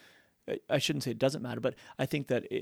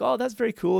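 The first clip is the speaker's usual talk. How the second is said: put-on old person voice; 10 semitones higher, 4 dB louder than usual. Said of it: "I'm putting on the old person voice".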